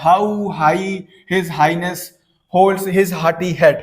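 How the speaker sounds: unhurried teacher reading; slow recitation. Shown as a demonstration. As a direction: read it slowly, letting each h land. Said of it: "ह sound आया है".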